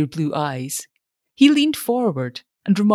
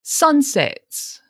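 absent echo; 10 semitones higher than usual. A narrator's reading. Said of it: "echoed Mister Wingate absently".

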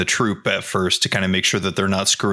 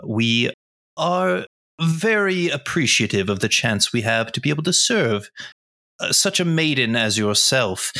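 courtly gentleman; 4 semitones higher than usual. Acted. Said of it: "come up to her and say".

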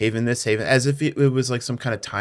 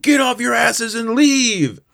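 intercom order; 12 semitones higher, 6 dB louder than usual. Retold or imitated. Covid on the intercom to everybody, hammed-up shouted order. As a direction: holler orders to the whole ship. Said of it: "gets on the intercom and is like".

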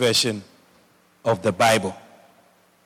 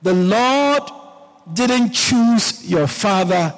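mock retort; 5 semitones higher than usual. David answers his wife about being chosen, emphatic retort. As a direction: imitate a king proudly answering back. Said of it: "David told her".

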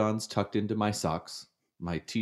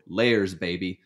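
smug dad boast; 5 dB louder, slower than usual. Retold or imitated. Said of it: "and just go".

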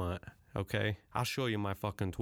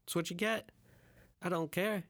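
defiant; 8 semitones higher than usual. Real, not acted. Defiant shrugging after rant.

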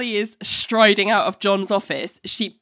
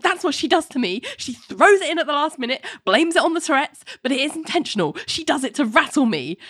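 whiny complaint; 6 semitones higher than usual. Retold or imitated. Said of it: "John's like".

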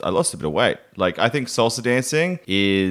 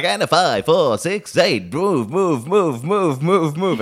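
salsa teacher calling; 7 semitones higher, slower than usual. Retold or imitated. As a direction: shout the counts at the class. Salsa instructor calling counts.

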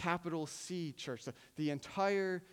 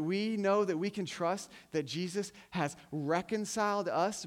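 louder, building sermon voice with conviction; rousing preaching; 4 dB louder than usual. Acted. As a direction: preach it out with growing fire, louder. Rising sermon climax.

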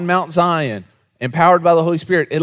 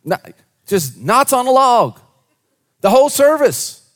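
mimicking bored singers; 7 semitones higher, 4 dB louder than usual. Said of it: "This is how they're singing".

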